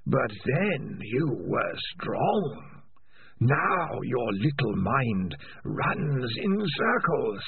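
slow eerie creature voice; menacing Spider. Acted. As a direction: threaten slowly from inside his head.

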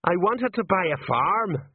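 slow, high-pitched moan. A narrator's reading. Sergeant hanging from a roof to the gnome, moaning. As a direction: moan it out, drawing the words high. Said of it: "moaned Colon".

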